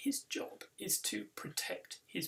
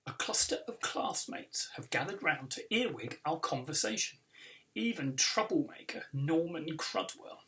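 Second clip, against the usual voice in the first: lively read-aloud storytelling; story narration. A narrator's reading. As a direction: read it like a children's book for a crowd. Author reads book aloud.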